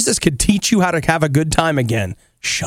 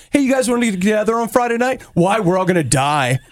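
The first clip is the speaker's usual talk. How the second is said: mock catastrophizing. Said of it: "jaded about stuff like".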